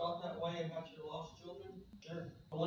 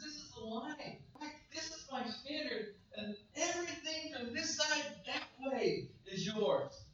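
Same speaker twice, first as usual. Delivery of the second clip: God's voice; 6 semitones higher, 4 dB louder than usual. Acted. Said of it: "God says".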